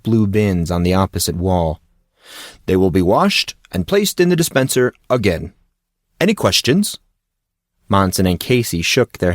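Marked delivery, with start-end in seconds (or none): 2.7-7.0 lightly voiced grandiose coach, overly polite; a hint of a theatrical, courtly gym coach; formal coach. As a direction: play the pompous gentleman coach. Coach Hawk continues.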